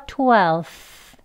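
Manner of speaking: twelfth with the f dropped, straight into the th; easy twelfth. Shown as a demonstration. Teacher demonstrating simplified twelfth again. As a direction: slide into the th, no f. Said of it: "이렇게 되는 거죠".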